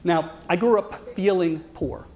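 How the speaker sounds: slow, leaning hard on "feeling"; slow and deliberate, stressing "feeling". Real, not acted. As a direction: draw out "feeling" so it lands. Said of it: "let me emphasize the word feeling".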